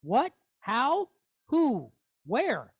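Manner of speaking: What? Or where? Or who? with a lifted, asking tone; questioning tone. Shown as a demonstration. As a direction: ask each word like a real question. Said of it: "where you would ask a question".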